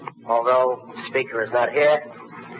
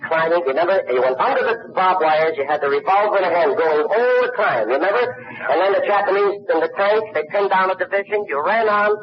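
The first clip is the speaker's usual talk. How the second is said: building excitement, voice climbing higher and higher; excited retelling; 5 semitones higher than usual. Retold or imitated. Roast speaker gushing to Bogart about his war film, excitedly. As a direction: get carried away reliving the movie scene.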